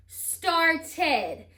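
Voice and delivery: "Started" split as star-ted, the ending fully voiced; ending sounded out. Shown as a demonstration. Teacher adding the ending, "Started" said as star-ted. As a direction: say "Started" in two distinct parts with a clear "ed". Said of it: "And then I have that id".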